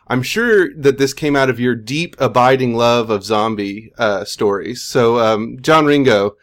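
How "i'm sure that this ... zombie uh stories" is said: sarcastic. Acted. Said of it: "note the sarcasm on my voice".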